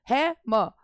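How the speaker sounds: stressed है, separate falling म; rise then fall. Shown as a demonstration. Teacher showing falling rhyme, rising है then falling म. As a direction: lift है, then let म drop after a small break. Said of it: "आवाज़ पहले जो है वो उठ रही है फिर गिर रही है".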